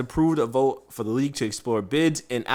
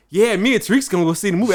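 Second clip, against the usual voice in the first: higher, faster, eager coworker voice; imitating Kevin; 8 semitones higher, 7 dB louder, faster than usual. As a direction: pitch it up and rush it like a hyped coworker. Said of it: "the other day he was like".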